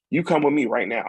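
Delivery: firm mock order, come now; retold nurse's command.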